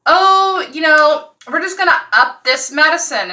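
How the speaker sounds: lightly hammed-up careless doctor; mocking dismissive doctor. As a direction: parody her careless cheer.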